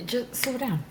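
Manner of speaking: whispered advice. Acted. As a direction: hush it gently to a child. Advice to eight-year-old self.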